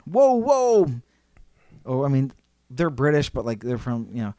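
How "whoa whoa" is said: high, alarmed mock whoas; startled protest. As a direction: play caught off guard, pitch jumping. Acted startled American under attack.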